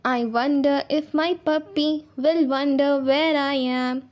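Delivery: slow, measured verse with stretched words; poem recitation. Shown as a demonstration. Teacher returning to the poem's lines, slow recitation. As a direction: draw each line out evenly.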